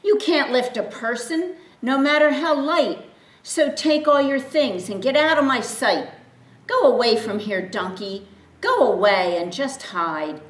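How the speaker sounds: mean owner driving the donkey away; huffy scolding. Acted. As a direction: send him off in a huff. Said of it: "pointed his finger and said with a huff".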